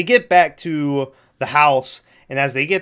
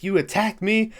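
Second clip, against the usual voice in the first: high, incredulous mock accusation; mock indignant disbelief; 7 semitones higher than usual. Retelling a character accusing his attacker, mock indignation. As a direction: act out being affronted. Acted quarrel in retold scene.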